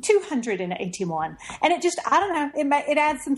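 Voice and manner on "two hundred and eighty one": British Siri voice. Retold or imitated. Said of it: "She says it totally wrong".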